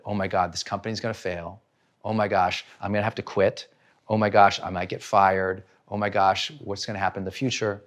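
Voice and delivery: low, hushed fretting; worried inner voice. Acted. Employee fearing for the job, quiet worried muttering. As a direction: think the worries aloud, softly and low.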